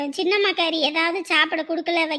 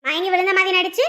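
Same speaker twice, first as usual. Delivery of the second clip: muttered threat; 2 semitones higher, 4 dB louder than usual. Acted. Stepmother threatens girl alone.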